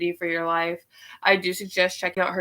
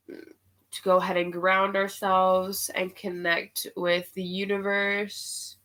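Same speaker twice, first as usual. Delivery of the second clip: guided meditation. Acted.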